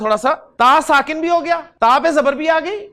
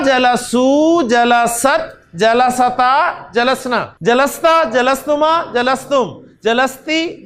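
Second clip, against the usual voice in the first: rhythmic conjugation chant, long held endings at first; drill recitation; much slower than usual. Shown as a demonstration. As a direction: recite each form in turn like a classroom drill. Recites the second conjugation table.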